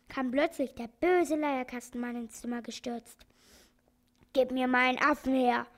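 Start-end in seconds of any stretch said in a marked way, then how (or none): 4.3-5.7 a mock shout from the angry organ-grinder; a demanding shout, not full force. The organ-grinder bursts in and demands his monkey, shouting. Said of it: "schrie er".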